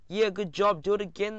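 high, cheering call; excited crowd cry. A narrator's reading. Delighted audience urging on the karate show, cheering. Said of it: "they cried".

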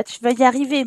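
encouraging. Real, not acted. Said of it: "Allez, Florent, un peu de forçage".

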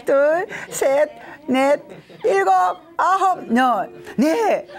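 loud, high counting with laughs; high-energy laughing count; counting through laughter. Shown as a demonstration. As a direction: keep the count going as you laugh. Counts while group keeps laughing.

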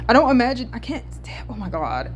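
flustered false starts; stuttering. Real, not acted. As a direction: break off and restart, flustered. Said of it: "I'm literally stuttering".

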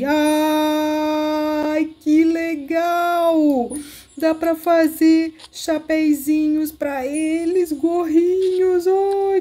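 slow, drawn-out gush of delight. Real, not acted. Shown the tiny knitted hats, gushing slowly with delight. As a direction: stretch each word out in pure delight.

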